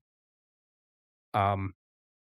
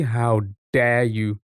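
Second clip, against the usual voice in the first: drawn-out mock-affronted reply; slow, playful show of being offended; mock offence; much slower than usual. Streamer answering chat's accent jibe, mock offence.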